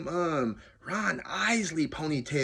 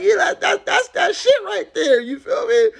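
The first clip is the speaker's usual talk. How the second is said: hyped shouting; 9 dB louder than usual. Retold or imitated. Hyping the singing, very loud.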